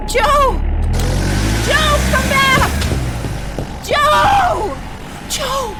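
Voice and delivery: high, loud shouts after him; desperate shouting. Acted. Shouting after Joe as he leaves. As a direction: yell for him to come back.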